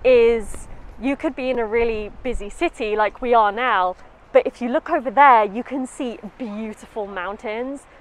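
muffled behind cloth mask; speaking masked outdoors; through a face mask. Real, not acted. Seen 1: White mask over mouth and nose while she speaks; cutaway after 11s.

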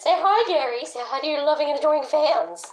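high, sing-song prompting; coaxing pet talk. Pretend. Owner urging snail Gary to greet fans, high coaxing.

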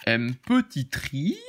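put-on slow, stretched-out Marseille accent with a rising end; exaggerated Marseille accent. YouTuber repeating himself to viewers, in drawn-out mock Marseille accent. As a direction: drag it out in a mock Marseille twang. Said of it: "je prends l'accent, euh, marseillais".

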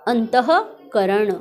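अंतःकरण slow, as "antaha... karan"; slow teacher's demo of अंतःकरण with the ह sounded; h sound exposed. Shown as a demonstration. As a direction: break अंतःकरण after an audible "ha". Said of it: "ह की sound आई".

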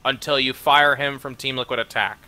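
formal declamation with a slow sign-off; mock complaint letter. Offended viewer demands a firing by email, mock-formal indignation.

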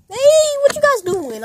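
high, loud hail to friends; calling out. Acted. Newcomer hails the friends by the slide, calling out. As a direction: call over to them, starting high.

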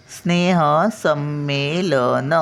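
स्नेह संमेलन said slowly, with a doubled म in संमेलन; slow model. Shown as a demonstration. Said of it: "स वर टिंब आहे". (स्नेह संमेलन सावकाश)

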